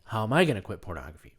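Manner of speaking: quoting the viewer. Retold or imitated. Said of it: "this is you saying it".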